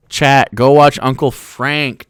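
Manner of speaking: slow, loud insistent plea; emphatic slow urging call. Real, not acted. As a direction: drag it out, almost shouting at chat. Urging chat to watch.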